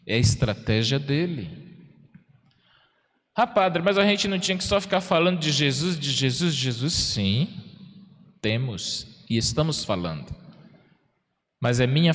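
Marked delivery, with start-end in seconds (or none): 3.4-6.9 quick, higher, whiny voicing of a churchgoer; mock parishioner complaint. Priest mocks a parishioner's protest, quick and whiny.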